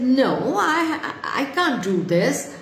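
put-on a touch of a reluctant girl; mildly acted refusal. Story girl refuses to help.

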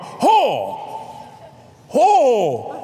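reenacted whoop. Preacher retelling her accidental gulp of scotch, whooping. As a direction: belt out a high gasping whoop. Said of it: "And I went".

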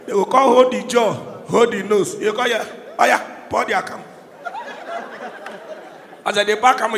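normal talking voice

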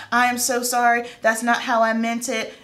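imitating a client's apology, slightly high; effusive apology. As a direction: plead it in a lightly mimicked voice. Mimicking client apologizing profusely.

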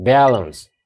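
バランスのバを強く; 頭を押し出す; 先頭に強勢. Shown as a demonstration. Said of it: "ストレス前なんだけど". (第一音節に強勢)

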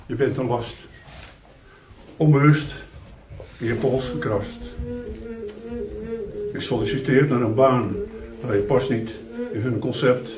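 measured poetry reading with long pauses after lines; poem recitation. Acted.

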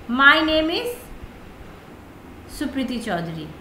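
every word drawn out slowly; slow deliberate example. Shown as a demonstration. Teacher slowly models an introduction line for students, drawn out. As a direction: spell it out slowly for the class. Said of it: "जैसे देखिए".

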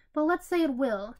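cutting in, pressing harder; insistent interruption. Acted. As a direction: talk over him, insistent. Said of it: "Technoblade interrupted".

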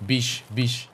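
Beach as biesh in a Russian accent; Russian accent, beach ending in sh. Shown as a demonstration. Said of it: "I can only say it in Russian".

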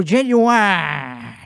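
long, drawn-out Southern "genuine"; exaggerated Southern accent. Shown as a demonstration. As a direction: stretch the word out with a Southern drawl. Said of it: "It doesn't really sound Italian".

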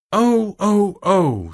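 put-on high, loud childish wailing; child's wail. Crying child heard from a sitting room, loud wail. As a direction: draw out each cry like a protesting child.

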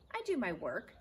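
short, firm and to the point; crisp. Acted. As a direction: answer crisply like a proud sailor. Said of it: "said Stuart crisply".

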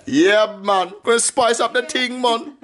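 a hint of Jamaican patois; Jamaican accent. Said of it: "Rasta, you know".

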